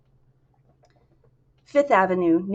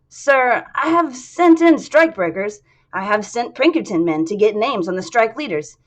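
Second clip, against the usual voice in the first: higher, louder defensive report; nervous subordinate; 5 semitones higher, 5 dB louder than usual. Acted. Sullivan defending himself to his boss, higher and louder. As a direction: insist you did your job.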